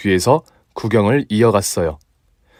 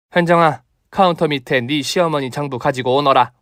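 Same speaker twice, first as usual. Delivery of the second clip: higher smug commanding voice; gloating winner; 4 semitones higher than usual. Acted. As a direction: savor the win, then order. Mother gloats, orders ledger. (의기양양한 명령)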